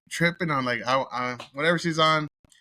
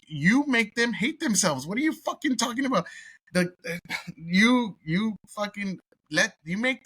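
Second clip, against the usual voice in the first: can't believe what he just heard; incredulous outburst; 7 semitones higher than usual. Real, not acted. Vlogger reacting to a clip of paid racism shaming, incredulous high outburst. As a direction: voice jumps high in angry disbelief.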